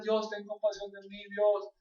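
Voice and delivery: high, slow, chant-like appeals; imitated pleading. Believer recites general prayers to God, imitated pleading. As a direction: lightly mimic a drawn-out, repetitive plea.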